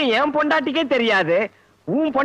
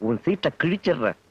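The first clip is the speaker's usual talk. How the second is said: menacing threat; 12 semitones lower, 3 dB quieter than usual. Acted. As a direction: warn him ominously, pitched right down. Boss threatens his employee.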